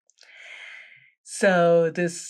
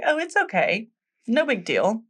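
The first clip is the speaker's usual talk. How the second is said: light, higher-pitched soothing voice; mock reassurance; 4 semitones higher than usual. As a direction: imitate the hen wife brushing the worry away. Hen wife reassures the worried girl.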